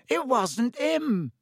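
slow, high roaring protest. A narrator's reading. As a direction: roar it out in defence. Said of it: "roared the boy".

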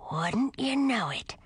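put-on slow sour grumble of an old skull; grumpy skull voice. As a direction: drawl it like a sulky skull.

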